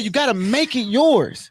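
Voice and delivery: high, slow, weighty mentor line; big brother advising. Retold or imitated. Big brother giving the pledge the lesson, slow. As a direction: lay it down slowly as the mentor. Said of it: "he said".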